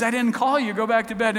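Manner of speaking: put-on grumpy old priest sending a boy away; crotchety Eli. Old priest bothered by young Samuel, crotchety. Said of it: "he was an old crotchety man".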